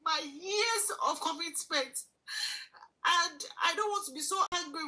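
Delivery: real tears while speaking; choking up as she says it; crying. Real, not acted. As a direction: voice breaking with tears. Recalling her losses, voice breaking.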